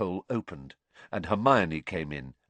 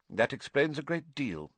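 higher-pitched, tart retort; 6 semitones higher than usual. A narrator's reading. Professor doubting a seer's claims, tartly. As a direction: cut in tartly, without raising the volume. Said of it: "said Professor McGonagall tartly".

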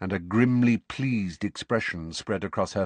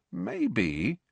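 slow; 4 dB quieter than usual. Acted. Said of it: "said Ron slowly".

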